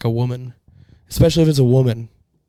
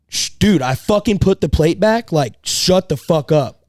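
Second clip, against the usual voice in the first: louder, higher tough-guy warning; retold confrontation; 4 semitones higher, 4 dB louder, slower than usual. Telling off the rude guy, tough and louder. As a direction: tell him to shut up, stern. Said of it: "I just looked at him and I went".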